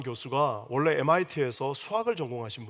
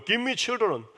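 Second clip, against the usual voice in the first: very slow, each word laid out; slow English reading; 6 semitones higher, 6 dB louder, much slower than usual. Shown as a demonstration. Preacher reading Rachel's plea in English, slow and deliberate. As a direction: read the verse out slowly and clearly. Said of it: "영어로는 뭐예요?".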